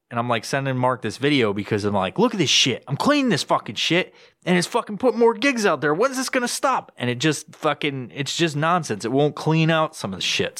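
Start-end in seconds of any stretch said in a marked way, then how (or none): 2.2-6.9 retold frustration. Frustrated message to Mark retold.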